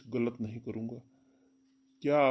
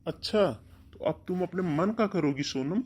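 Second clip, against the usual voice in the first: scolding; 5 semitones higher, 4 dB louder than usual. Acted. Brother scolding sister.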